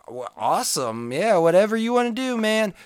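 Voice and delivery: high, breezy imitation of an unbothered guy; Icelandic guy. Icelandic guy shrugging off the American's wish, high mock voice. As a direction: pitch it up and toss it off like nothing matters. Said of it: "So the Icelandic guy's like".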